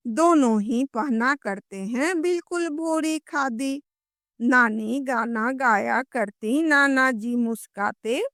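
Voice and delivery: sing-song nursery poem; लयबद्ध कविता पाठ. Shown as a demonstration. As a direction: show children how to chant the rhyme, line by line. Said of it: "तो आप कैसे गाओगे". (लय में गाकर कविता सुनाना)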